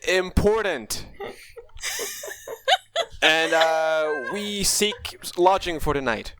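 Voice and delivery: lightly voiced formal knight; noble knight voice. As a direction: speak slowly like a proud knight. Knight speaks in character.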